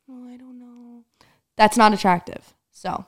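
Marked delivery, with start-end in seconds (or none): 0.1-1.0 very soft, higher-pitched unsure voice; barely audible, imitating someone unsure; mock timid mumble. Imitating a poor conversation partner, timid and very quiet.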